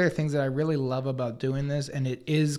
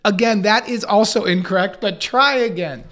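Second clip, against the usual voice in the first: playful correction; 4 semitones higher, 6 dB louder than usual. Retold or imitated. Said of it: "She would go".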